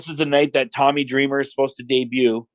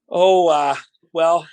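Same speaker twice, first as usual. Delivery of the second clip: hesitant stalling; 4 semitones higher, slower than usual. Retold or imitated. Nervous wrestler stalls before tense meeting.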